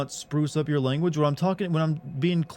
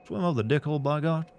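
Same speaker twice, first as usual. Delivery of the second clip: southern accent. Shown as a demonstration. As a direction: say it with a Southern twang. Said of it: "but with a southern accent?".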